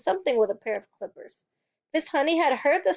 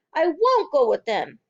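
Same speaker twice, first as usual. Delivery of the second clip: loud stubborn refusal; defiant shout; 3 semitones higher, 6 dB louder than usual. A narrator's reading. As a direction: dig in her heels.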